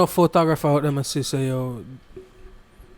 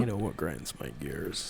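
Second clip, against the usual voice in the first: catchphrase voice; 12 semitones lower, 14 dB quieter than usual. Retold or imitated. Quoting a TV catchphrase.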